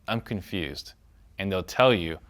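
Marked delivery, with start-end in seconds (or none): 0.1-0.9 soft, puzzled "I'm confused". Shown as a demonstration. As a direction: say "I'm confused" softly, sounding lost. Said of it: "So you just say".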